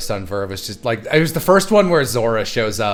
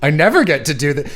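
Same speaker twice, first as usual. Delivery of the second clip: higher, louder eager squeal; imitating an excited actor; 4 semitones higher, 4 dB louder than usual. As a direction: gush like a happy bit actor. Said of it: "He was like".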